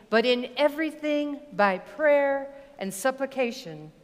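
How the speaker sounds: solemn church lectern reading; scripture reading. Acted. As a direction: read it reverently, phrase by phrase with pauses. Reads scripture aloud to congregation.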